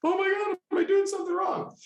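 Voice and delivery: very high, squeezed inner panic; hammed-up high-pitched freak-out; mock panic. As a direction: squeal it like a panicked thought. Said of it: "I'm in my mind just freaking the F out".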